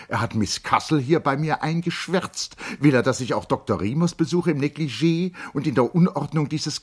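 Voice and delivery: high, loud protest; flustered noblewoman refusing; indignant lady. Acted. Charlotte protests the visit. (entrüstete Dame, hoch und laut)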